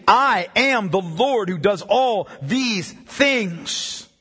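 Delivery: measured declaration, slowing to word by word; solemn scripture reading. Acted. Preacher reading "I am the Lord" passage, solemn and deliberate. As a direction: build to slow, separately weighted words. Reads scripture aloud slowly.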